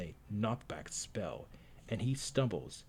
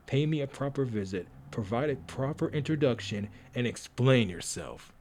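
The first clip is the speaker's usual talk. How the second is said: a touch louder, haughty rebuke; stern noblewoman; 4 dB louder than usual. Acted. Cordelia rebuking the stranger, haughty and a touch louder. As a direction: put him in his place.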